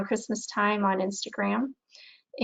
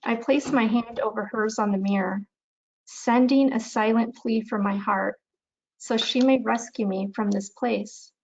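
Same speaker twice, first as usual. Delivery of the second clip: measured recital with pauses between lines; unhurried poetry recitation, little drama; poem reading. Acted. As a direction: read your poem aloud, phrase by phrase. Reads own poem aloud.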